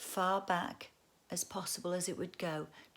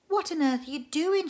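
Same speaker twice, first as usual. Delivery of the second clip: higher, louder amazed question; astonished; 9 semitones higher, 8 dB louder than usual. Acted. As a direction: ask in astonishment. She asks, astonished.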